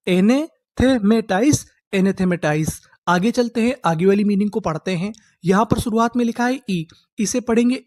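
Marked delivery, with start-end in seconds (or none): 0.1-1.6 slow model word. Shown as a demonstration. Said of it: "तो उसे हम लोग क्या बोलेंगे?".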